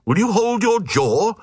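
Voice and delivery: a high indignant crowd cry, then settling; mock outraged shout of the mob; hammed-up huffy protest. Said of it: "the Glugs cried".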